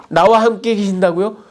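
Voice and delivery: indignant disbelief with 나와 leaned on; incredulous retort. Acted. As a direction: turn it on yourself, hitting 나와. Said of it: "당돌하게 하나님을 비난합니다".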